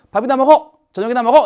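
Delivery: high, loud mock order; acted curt maternal command; cross mother. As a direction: imitate a fed-up mother calling the child to eat. Acts mother's gruff order to eat.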